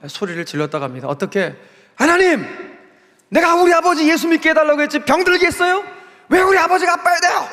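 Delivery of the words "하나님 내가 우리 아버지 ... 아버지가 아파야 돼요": high, loud, strained yell at God; screaming at God. Retold or imitated. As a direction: scream it up at heaven in raw protest. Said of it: "고래고래 소리를 지르고 악을 바쳐 소리를 질렀다고".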